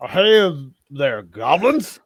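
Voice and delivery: put-on loud, slurred drunk calling out; a swaying drunk hailing the goblins; drunk greeting. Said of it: "He says".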